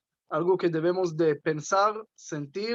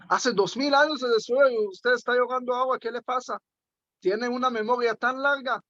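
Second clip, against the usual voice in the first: incredulous peasant; 5 semitones higher than usual. Retold or imitated. Peasant incredulous at rabbi crying.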